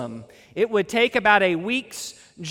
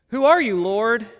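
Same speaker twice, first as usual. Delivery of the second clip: astonished question; 3 dB louder than usual. Retold or imitated.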